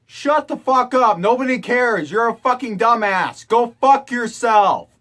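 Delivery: loud furious telling-off; loud angry rant at the culprit; angry yelling. Acted. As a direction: tear into them.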